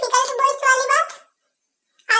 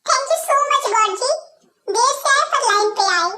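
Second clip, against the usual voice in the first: slow, mock-grateful thanks; sarcastic thanks; slower than usual. To the man who says he can't live with her, slow mock gratitude. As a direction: drawl the thanks like a favour granted at last. Sarcastic reply to his complaint.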